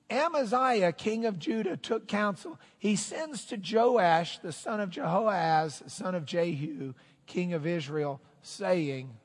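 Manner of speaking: scripture reading. A narrator's reading. Preacher reading Chronicles to his congregation, declaimed scripture reading. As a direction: read out the verse with ceremony.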